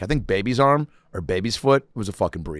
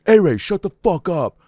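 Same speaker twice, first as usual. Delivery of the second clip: higher-pitched mock scolding; imitated telling-off; 8 semitones higher, 4 dB louder than usual. Brother silencing a giggler at the meeting, mock annoyed call. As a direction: cut him off, acting an annoyed brother.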